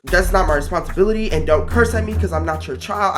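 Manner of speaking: retold firm refusal with attitude; indignant pushback. Teen refusing coworker's order, retold indignant pushback. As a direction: stand your ground, mildly indignant. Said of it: "I literally said it just like that".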